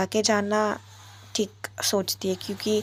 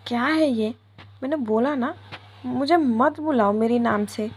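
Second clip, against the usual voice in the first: louder, higher annoyed retort; irritated snapping; 4 semitones higher, 3 dB louder than usual. Acted. Tanu snaps at Viya over her name, higher and louder. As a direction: bite back at being called by name.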